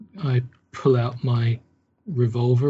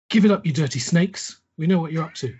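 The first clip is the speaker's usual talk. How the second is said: raised, higher tough gunslinger call; tough threat; 4 semitones higher, 3 dB louder, faster than usual. Acted. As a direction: call them out from the shadows. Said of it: "and say".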